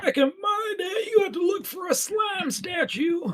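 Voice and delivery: put-on high, strained old-timer yell; old-timey voice. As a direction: holler like a cranky grandpa. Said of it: "they're saying it in an old-timey voice".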